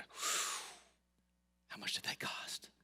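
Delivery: hushed whisper of disbelief; whispered awe. Retold or imitated. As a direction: breathe the question like a secret. Retold awed question to friend.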